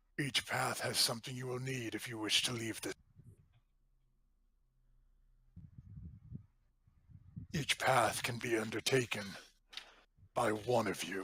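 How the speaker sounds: deep, booming, billowing voice. Voicing an unseen presence speaking into the players' minds: deep booming voice. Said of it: "a deep voice billows through".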